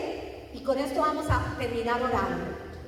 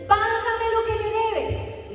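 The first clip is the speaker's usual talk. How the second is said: demanding creditor; 8 semitones higher, slower than usual. Retold or imitated.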